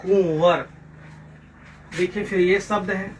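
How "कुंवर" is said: कुंवर in two clear syllables, कुं-वर; careful pronunciation. Shown as a demonstration. Teacher answering how कुंवर is pronounced, careful and clear. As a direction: model कुंवर carefully with a falling end. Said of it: "क्या इसका उच्चारण होगा".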